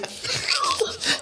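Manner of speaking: breathless high-pitched laugh. Real, not acted. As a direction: silent wheezing laugh, mostly air. Cracking up at the stove joke.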